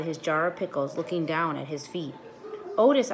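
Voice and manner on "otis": loud, high holler of a name; calling out over the downpour. A narrator's reading. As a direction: shout his name over the rain. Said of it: "I hollered at him over the rain".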